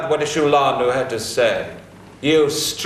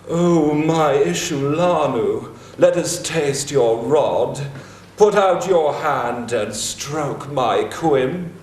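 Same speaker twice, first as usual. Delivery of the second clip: mocking Ishtar; slower than usual. Gilgamesh mocks Ishtar's seduction.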